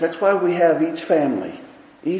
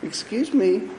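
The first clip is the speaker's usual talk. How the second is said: soft, low apologetic voice; timid, overly polite rebuke; mock timid apology; 5 semitones lower, 6 dB quieter than usual. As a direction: apologize for every word. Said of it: "That's not Jesus".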